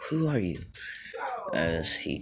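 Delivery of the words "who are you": much higher, startled-sounding question; high-pitched question. Acted. Midoriya waking to the heroes, high-pitched question. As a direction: pitch it high with a falling end. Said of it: "he doesn't say it like that".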